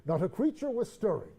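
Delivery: slow storytelling reading; poem reading. Acted. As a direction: read it like a bedtime poem. Reads the poem aloud.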